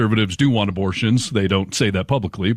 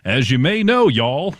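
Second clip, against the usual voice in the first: Texan drawl; 5 semitones higher, slower than usual. Pretend. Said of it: "no, I didn't say y'all".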